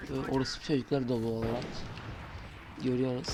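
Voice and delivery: sick voice. Pretend. Fake sick voice again.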